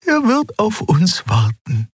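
high, reassuring alien voice; Xea's voice. A narrator's reading. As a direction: reassure her in a high light voice. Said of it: "sagte sie".

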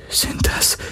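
soft, voiceless whisper; breathed. A narrator's reading. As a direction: breathe the question out in awe. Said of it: "hauchte sie".

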